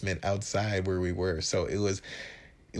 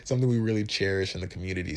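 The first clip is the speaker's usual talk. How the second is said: mock straight face; faster than usual. Real, not acted. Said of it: "I'm trying to say this with a straight face".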